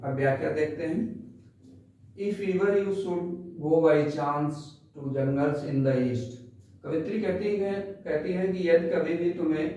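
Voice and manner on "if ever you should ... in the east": very slow, measured poem reading; poem recitation. Shown as a demonstration. Teacher reciting the poem for class ten, slow recitation. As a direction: recite each phrase slowly with pauses. Rereads verse before explaining.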